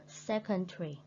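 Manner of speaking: "secondary" with SEC strongest, falling away after; first-syllable stress. Shown as a demonstration. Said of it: "put the stress mark on the first syllable".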